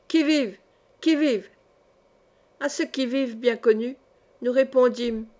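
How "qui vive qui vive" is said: mildly raised, higher challenge; calling out. A narrator's reading. Father groping towards his family, calling out. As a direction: call it out as a sentry's challenge, lightly. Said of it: "en criant".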